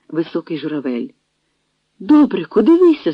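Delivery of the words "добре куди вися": high startled cry of disbelief; a sudden shocked exclamation. A narrator's reading. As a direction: gasp it out in shock. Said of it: "зойкнула Янка".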